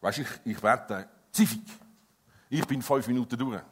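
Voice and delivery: lightly mocked sheepish excuse; hesitant excuse. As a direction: hem and haw sheepishly. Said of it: "wie hast du eigentlich in deinem Gebetsleben".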